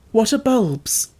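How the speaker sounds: high, eager interruption; quick question. A narrator's reading. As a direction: cut in quickly, curious. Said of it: "he put in quickly".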